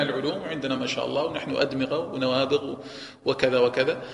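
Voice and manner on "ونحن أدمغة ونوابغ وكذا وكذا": normal talking voice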